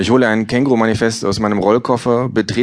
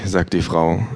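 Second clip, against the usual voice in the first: ordinary delivery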